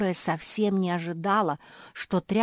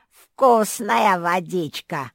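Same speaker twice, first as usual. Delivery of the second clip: louder, very slow gloating; bass dragon grunt; 3 semitones higher, 10 dB louder, much slower than usual. A narrator's reading. The dragon drinks before the thirsty one, gloating. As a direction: gulp and gloat. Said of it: "крякнул бас".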